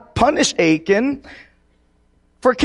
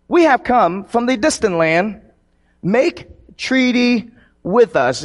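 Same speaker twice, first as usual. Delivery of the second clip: measured public Bible reading; scripture reading; 2 semitones higher than usual. Acted. Preacher reading Joshua chapter nine to his congregation, declaimed reading. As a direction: read the passage out clearly, stressing key words.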